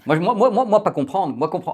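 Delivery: dumb caveman talk, high and loud; dopey cartoon bellow. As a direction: play the clueless brute who understands nothing. Mock caveman not understanding. (voix de simplet ahuri, plus haute et plus forte)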